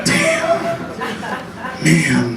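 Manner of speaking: sudden high squeal, comic shock; squealed damn. Retold or imitated. Reacting to his bad teeth with a squealed damn. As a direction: yelp it out in disbelief.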